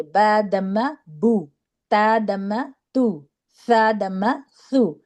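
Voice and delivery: slow "بو، تو، سو", each a closed rounded oo; rounded lips. Shown as a demonstration. Teacher drilling damma for students, slowly with rounded lips. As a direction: round the lips on every final oo in "بو، تو، سو". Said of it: "ہونٹ آپ کے بند ہو جائیں گے".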